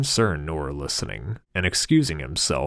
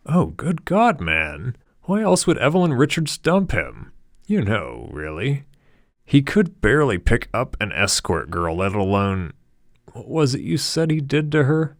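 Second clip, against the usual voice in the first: higher, louder mocking gossip; scornful Harold; 8 semitones higher, 6 dB louder than usual. A narrator's reading. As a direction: laugh him off as a loser. Harold gossiping about Bateman.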